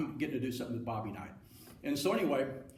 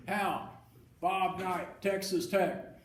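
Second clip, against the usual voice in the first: higher-pitched coach introducing himself; Bob Knight; 5 semitones higher, much slower than usual. Retold or imitated. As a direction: insist on who you are in an imitated voice. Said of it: "that is a pretty good imitation".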